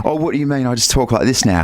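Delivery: mock-innocent English accent; lightly affected English-accented protest; put-on English accent. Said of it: "You do not have an accent".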